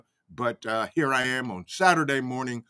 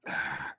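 demo breath out; 11 dB quieter than usual. Shown as a demonstration. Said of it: "and breathe".

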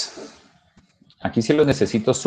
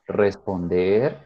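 each word dragged out on its own; mock stilted listing; slow, unnatural; 2 semitones lower, much slower than usual. Shown as a demonstration. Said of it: "Uno habla natural".

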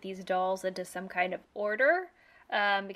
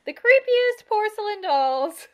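slow, drawn-out, louder and higher; spooky emphasis; 11 semitones higher, 9 dB louder than usual. Real, not acted. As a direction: stretch it out like a ghost story. Describing the creepy dolls.

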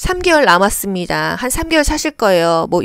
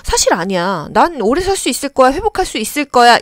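patient in denial; 3 semitones higher than usual. Acted. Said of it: "이런 부정의 마음이 듭니다".

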